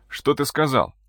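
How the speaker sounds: hushed whisper. A narrator's reading. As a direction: breathe it out, stunned. Stunned man asks in shock.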